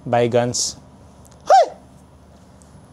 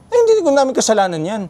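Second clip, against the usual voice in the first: quick, high, louder retort of an annoyed vendor; vendor's raised voice; 9 semitones higher, 3 dB louder, faster than usual. Retold or imitated. Imitating the vendor raising his voice at a kid. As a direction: snap back like an irritated shopkeeper. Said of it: "tumaas yung boses niya".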